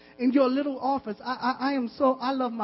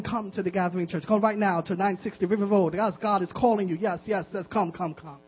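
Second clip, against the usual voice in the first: low, mock divine summons; voice of the Lord; 5 semitones lower than usual. The Lord calling people to church, mock summons. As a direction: intone a low call, repeats running on. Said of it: "hear the voice of the Lord saying".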